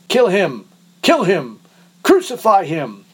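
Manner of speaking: high and loud, each kill punched; bay for his death like a mob; angry crowd shout. A narrator's reading. Crowd shouting back at Pilate, demanding death loudly. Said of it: "They shouted back".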